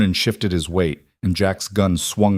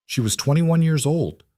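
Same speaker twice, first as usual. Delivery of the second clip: high, choked protest; strangled rage; 8 semitones higher than usual. A narrator's reading. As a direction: force it out through barely contained rage. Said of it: "The words came out strangled".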